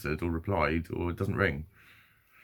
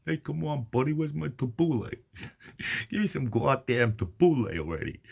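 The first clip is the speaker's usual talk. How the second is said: higher-pitched, hammed-up New York voice; New York accent; 5 semitones higher than usual. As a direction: play a pushy New Yorker demanding food. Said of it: "in a New York accent".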